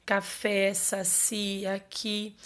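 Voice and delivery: "café, saci, aqui" each stressed on its final syllable; "café, saci, aqui" as separate examples, last syllables held. Shown as a demonstration. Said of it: "vai estar na última sílaba".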